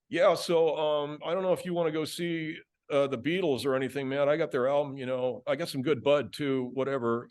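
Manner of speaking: lightly voiced laid-back Californian teen; surf kid. Friend offering album and bud, casual surf-kid voice. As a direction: imitate a Southern California surfer kid. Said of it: "like just any surf kid from Southern California".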